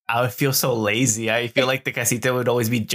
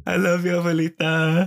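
laughing apology; 5 semitones higher than usual. Real, not acted.

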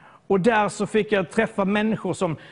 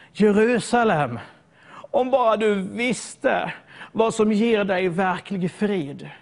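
mournful plea; much slower than usual. Retold or imitated. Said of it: "han börjar ropa".

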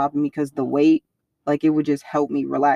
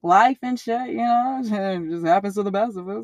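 shaken laugh; 3 semitones higher than usual. Retold or imitated. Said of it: "visibly being shaken".

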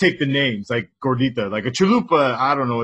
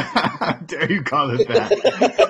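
mock indignant, laughing; 3 semitones higher, much slower than usual.

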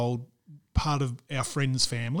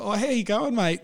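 mock greeting; 4 semitones higher than usual. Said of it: "Like this".

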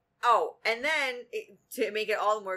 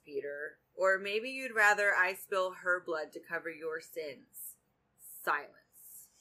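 reading a novel aloud. A narrator's reading. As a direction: read the romance scene out, taking your time.

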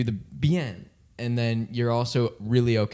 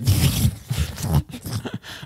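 sputtering breathy gasp; choking gurgle; 7 semitones lower than usual. Retold or imitated. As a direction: sputter like water in your face. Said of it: "Inhaling water".

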